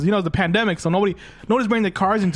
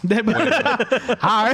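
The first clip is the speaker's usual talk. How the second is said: high, squeaky VTuber greeting; cute anime streamer; 4 semitones higher, much slower than usual. Real, not acted. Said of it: "VTuber voice?".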